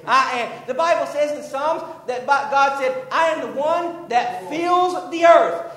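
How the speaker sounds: emphatic preacher's cadence; fervent preaching. Real, not acted. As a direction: declare God's words with weight on each phrase. Preaching at full force.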